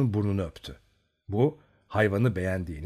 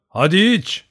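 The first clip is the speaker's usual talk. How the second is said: imitating Yeroşka; 8 semitones higher, 8 dB louder, slower than usual. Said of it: "tıpkı Yeroşka dayı gibi onun sesini taklit ederek".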